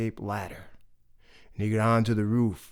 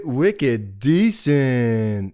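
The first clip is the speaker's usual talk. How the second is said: wolf voice; 5 dB louder, much slower than usual. Acted. Wolf drawls praise.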